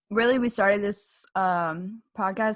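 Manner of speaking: talking through a mouthful; words round a bite of food; chewing while talking. Real, not acted. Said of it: "Sorry, I'm chewing something".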